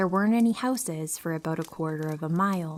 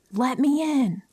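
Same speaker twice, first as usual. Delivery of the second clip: high, louder narrated demand; restrained scream; 7 semitones higher, 5 dB louder than usual. A narrator's reading. Lady at the cracked car window demanding entry, restrained scream. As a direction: raise pitch and volume to demand entry. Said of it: "and screamed".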